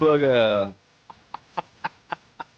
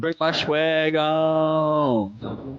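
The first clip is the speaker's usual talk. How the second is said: fake tough gangster; much slower than usual. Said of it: "say it in your gangsta voice".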